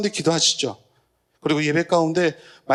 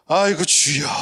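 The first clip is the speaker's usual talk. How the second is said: crying out; 5 dB louder than usual. Retold or imitated. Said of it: "누구를 부르는 거예요".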